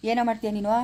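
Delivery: restrained taunt; taunting challenge. Acted. Man dares the caller to act, restrained taunt. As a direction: challenge them without raising the voice.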